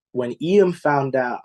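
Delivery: slow, choked-up start of the line; real emotion welling up as he speaks; a slow first try that falters; getting emotional. Real, not acted. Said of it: "I'm getting emotional".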